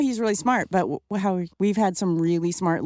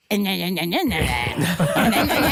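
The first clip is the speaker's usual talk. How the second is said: dismissive nah. Retold or imitated. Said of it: "And you were like".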